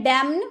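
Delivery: डैम्न said as plain dam; n dropped from डैम्न; silent n. Shown as a demonstration. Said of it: "एन का उच्चारण नहीं होता है". (डैम्न बिना न के)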